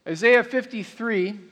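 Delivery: ordinary delivery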